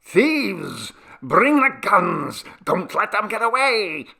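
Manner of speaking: high, loud cry of alarm; shouting. A narrator's reading. Jivan raising the alarm outside the house, high shouting. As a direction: rouse the house with drawn-out shouts. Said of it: "and shouted".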